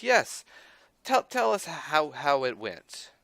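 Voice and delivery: high, loud, slow machine overlord; computer voice. Acted. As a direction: announce it like a giant all-seeing computer. GM voices the giant computer eyeball.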